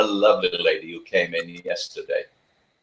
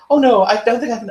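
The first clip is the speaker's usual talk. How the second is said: high, louder anxious refusal; imitating fussy client; 14 semitones higher, 6 dB louder than usual. Trainer mimicking the nervous owner refusing to tighten the collar. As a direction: plead that you just can't.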